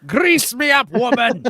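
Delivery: high shouted character line; hammed-up shout. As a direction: yell it like a cartoon hero. Mock line from game character.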